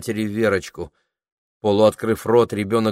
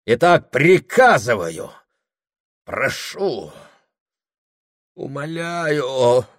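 order to plea; 5 semitones higher, 4 dB louder, slower than usual. A narrator's reading. Husband switching from ordering to begging, fading. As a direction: slide from commanding to begging.

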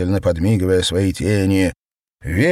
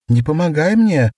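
insistent repeat; 9 semitones higher, 5 dB louder than usual. A narrator's reading. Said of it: "повторила она".

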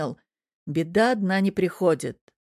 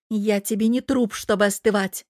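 hissed retort; 3 semitones higher, 3 dB louder than usual. Acted. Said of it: "прошипела девушка".

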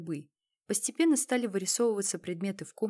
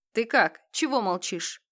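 calling out; 3 semitones higher, 7 dB louder than usual. Acted. Colonel calls to wounded man.

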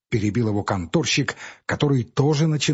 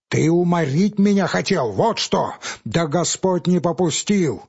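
high, raised accusations; quarrelling men, raised; heated quarrel; 4 semitones higher than usual. Acted. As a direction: accuse each other, voices climbing. Clerk and Pavel quarrel.

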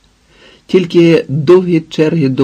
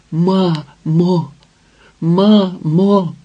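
bitter calling out; 4 semitones higher, much slower than usual. A narrator's reading. Stunned, trembling daughter calls to her mother, bitter calling out. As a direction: call for mother bitterly, each word falling away. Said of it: "вигукувала, як божевільна, голосно і гірко".

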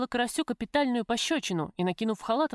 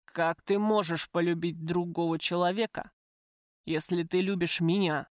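ordinary delivery, nothing marked

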